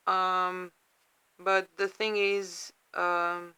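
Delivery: fighting back tears, words catching; holding back tears. Real, not acted. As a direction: voice wavering on the verge of tears. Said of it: "sorry, I'm trying not to cry".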